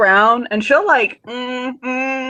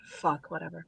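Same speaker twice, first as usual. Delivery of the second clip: whiny shrug; 4 semitones lower, 17 dB quieter than usual. Acted. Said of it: "She'll whine".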